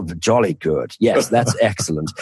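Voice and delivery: jolly-good southeast England accent, lightly mocked. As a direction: put on a proper southeast English accent. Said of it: "you need a southeast of England accent".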